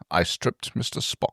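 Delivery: hushed confessional whisper. Acted. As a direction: whisper it like a guilty secret. Punchline of story summary.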